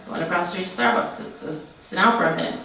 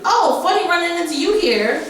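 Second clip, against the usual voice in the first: mock creepy guy; 10 semitones higher, 3 dB louder than usual. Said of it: "who do I hear behind me".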